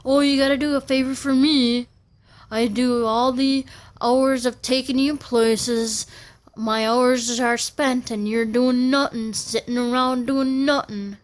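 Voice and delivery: mock the father's nagging; mocking dad's attitude. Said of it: "give me that attitude, like".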